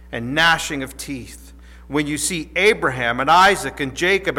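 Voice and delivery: measured, solemn Bible reading; scripture reading. Acted. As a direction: read the passage with reverent weight. Reads scripture passage aloud.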